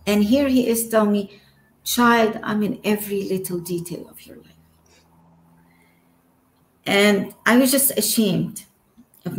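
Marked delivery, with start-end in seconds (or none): 1.8-4.5 soft, kind and fast, almost to herself. Retold or imitated. Holy Spirit tenderly reassuring her, kind voice. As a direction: tell her gently she is seen. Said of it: "in a very kind voice".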